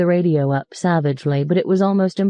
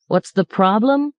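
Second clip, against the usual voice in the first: incredulous echo; 5 semitones higher than usual. Acted. Driver echoes question incredulously.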